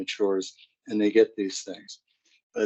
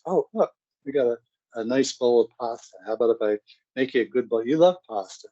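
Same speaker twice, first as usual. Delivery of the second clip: cheery coaxing mom; faster than usual. Retold or imitated. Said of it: "mom coaxing daughter with food".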